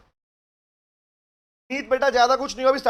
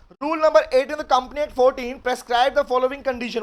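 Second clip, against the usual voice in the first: slow rule reading; much slower than usual. Shown as a demonstration. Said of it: "provision पढ़ने का कह रहा है".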